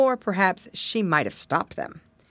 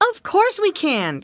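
high, loud piglet; proud little pig insisting; piglet crying out; 11 semitones higher, 5 dB louder than usual. Acted. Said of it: "cried Curly".

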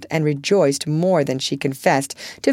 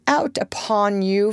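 mock scolding rhyme; 5 semitones higher than usual. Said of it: "say with our friend Cock Robin".

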